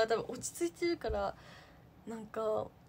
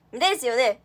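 rushed line; 10 dB louder than usual. Retold or imitated. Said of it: "早口になりすぎて".

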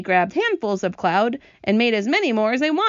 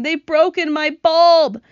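high, loud, drawn-out wail; hammed-up lament from the glowworm; 9 semitones higher, 8 dB louder, slower than usual. A narrator's reading. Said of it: "wailed the glowworm".

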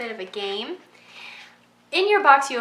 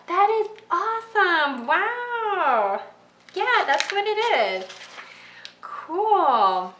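excited; 8 semitones higher, 3 dB louder, slower than usual. Real, not acted. Dream of RV trip.

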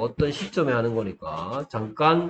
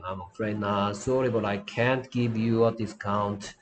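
softer, slow, apologetic "I'm afraid not"; polite refusal; 4 semitones lower, 5 dB quieter, much slower than usual. Shown as a demonstration. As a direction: turn them down gently. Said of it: "거절을 좀 어떻게 공손해야 되겠다". (공손하게 거절하듯)

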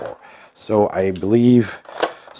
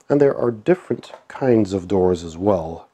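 stuffy nose from a cold; nasal, blocked-up voice. Real, not acted. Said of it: "excuse me for my nasal sounding voice".

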